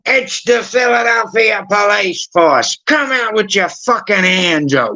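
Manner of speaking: high, drawn-out mock cop bellow; imitated commanding police announcement; police raid shout. Acts police raiding the house.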